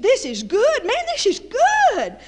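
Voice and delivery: high, stretched, loud mock delight; relishing the food. Church friends in Russia gushing over food, hammed-up delight. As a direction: savour every word like they love it.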